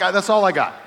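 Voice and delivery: nothing left to give; helpless strain. Retold or imitated.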